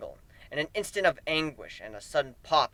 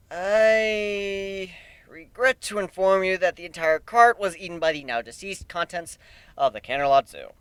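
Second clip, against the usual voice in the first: mock formal; 3 semitones higher than usual. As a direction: deliver bad news like a butler.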